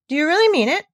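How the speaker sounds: high, loud delighted call; mother calling to grandmother in joy; calling out excitedly. A narrator's reading. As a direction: call across the room in amazement. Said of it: "she called out".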